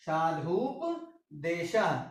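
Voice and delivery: साधुपदेशः drawn out very slowly, each syllable apart; slow demo. Shown as a demonstration. Teacher to students, slowly sounding out साधुपदेशः. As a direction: stretch साधुपदेशः so the class can follow. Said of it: "इस तरीके से हम इसको".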